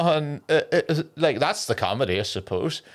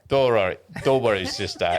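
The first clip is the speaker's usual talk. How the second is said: lightly put-on Jamaican accent; reassuring line in mock Jamaican accent; 3 semitones lower than usual. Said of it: "in a Jamaican accent".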